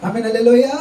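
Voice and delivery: rousing shout of praise; loud hallelujah. Real, not acted. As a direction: call it out loud to the hall. Preacher calls out to congregation. (బిగ్గరగా హల్లెలూయా)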